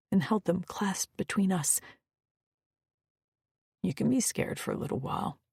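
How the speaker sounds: reassuring. Acted. Maddock comforting low.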